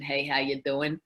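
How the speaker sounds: casual Brooklyn greeting; New York accent. Shown as a demonstration. Showing the speech she avoids, New York accent. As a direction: toss it out in Brooklyn street talk. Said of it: "I don't do the dems and those".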